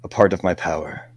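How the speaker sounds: bestow the gift like a solemn lord; grandly granting a wish. Acted. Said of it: "a hand reaches out ... towards you".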